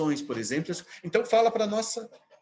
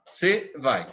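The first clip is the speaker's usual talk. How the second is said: "se vai" as two separate beats; syllable scansion; 3 semitones lower than usual. Shown as a demonstration. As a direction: tap out "se", then "vai". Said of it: "duas sílabas". ("se vai" em duas batidas separadas)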